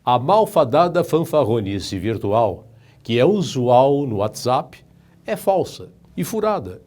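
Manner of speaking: reading with a pencil between the teeth; pencil in mouth. Shown as a demonstration. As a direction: talk around a pencil held crosswise. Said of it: "Leia esse texto como um exercício".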